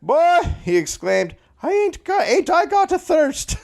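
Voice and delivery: high, slurring barfly whoop; town drunk. Pretend. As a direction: stumble in as the thirsty town drunk. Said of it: "Malloy stumbled into the bar".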